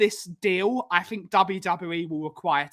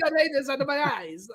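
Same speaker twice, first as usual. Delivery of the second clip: higher, fast, put-on Batista voice; Batista impression; 6 semitones higher, 4 dB quieter, much faster than usual. Host quoting Batista's laser-eyes line in a hammed-up voice.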